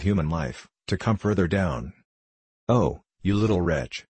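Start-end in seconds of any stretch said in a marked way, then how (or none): 2.7-4.1 screaming. A narrator's reading. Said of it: "screamed Charlotte".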